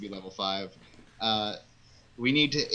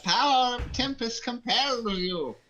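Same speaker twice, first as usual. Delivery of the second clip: higher, louder priest exorcising demons; louder exorcist; 11 semitones higher, 4 dB louder than usual. Acted. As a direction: shout the exorcism with zeal. Priest exorcism chant, repeated.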